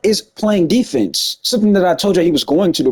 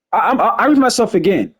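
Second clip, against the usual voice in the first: tripping over words; stutter; 3 semitones higher than usual. Real, not acted. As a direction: stumble over the words from rushing. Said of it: "'cause I just stuttered right there 'cause I'm talking so fast".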